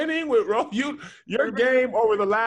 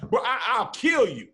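threat with a small stutter on I; 2 semitones higher than usual. Shown as a demonstration. Arguer showing a stutter, stammered threat. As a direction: trip on "I", then finish the threat. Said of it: "That's a stutter".

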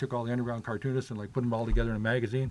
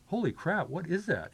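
mildly acted-out amazement; amazed reaction; 6 semitones higher than usual. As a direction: relive a stunned discovery, without shouting. Retelling his amazement at the billboard.

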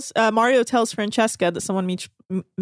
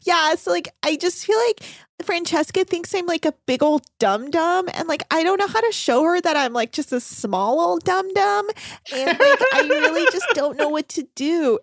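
high, airy ditzy voice; high mock-clueless rambling; mock ditzy stew; 6 semitones higher than usual. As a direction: play her clueless and sweet. Mocking ditzy Elizabeth.

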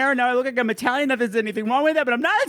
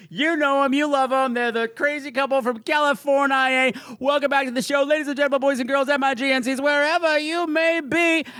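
ringmaster; 4 semitones higher than usual. Acted. Announcing guests like a showman.

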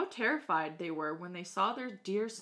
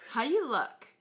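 put-on old woman voice; 2 semitones higher than usual.

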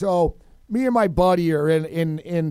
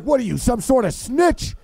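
angry father; 5 semitones higher than usual. Retold or imitated. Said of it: "I thought he was gonna kill his kid".

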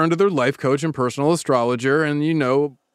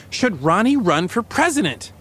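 rather loud; 3 semitones higher, slower than usual. Acted. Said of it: "says rather loudly".

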